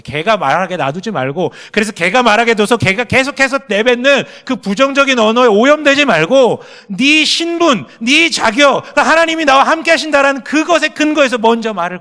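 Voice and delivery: loud, high, driving sermon climax; full-force preaching. Acted. Pastor urging the congregation to face God's love, loud fervent preaching. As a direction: preach it out, pressing every phrase.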